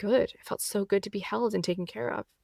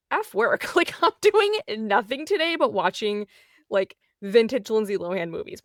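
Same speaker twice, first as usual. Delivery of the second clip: defiant rant; 4 dB louder than usual. Retold or imitated. Acted defiant quote to herself.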